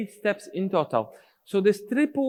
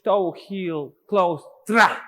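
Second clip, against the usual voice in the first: louder "tra" on the beat; accented call; 4 dB louder, much slower than usual. Shown as a demonstration. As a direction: punch the "tra" to mark the beat. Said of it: "the last beat of the phrase".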